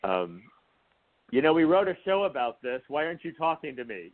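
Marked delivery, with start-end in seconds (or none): 1.3-4.1 raised pitch, teasing ghostly complaint; mock plea from beyond. The late friend scolding Kevin from beyond, mock plea. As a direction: play the dead friend nagging. Imitating the dead friend talking.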